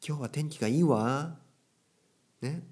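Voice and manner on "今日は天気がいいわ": higher-pitched demo with lilting final 「わ」; feminine speech. Shown as a demonstration. Teacher showing women's ending, higher feminine lilt. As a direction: imitate women's speech, rising on 「いいわ」. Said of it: "これはちょっと女性的".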